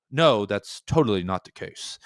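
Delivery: put-on a mild, slow British accent; lightly imitating Ishiguro in a British accent; host imitating an author correcting an interviewer, in a mild British accent. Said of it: "That, that's my best British accent".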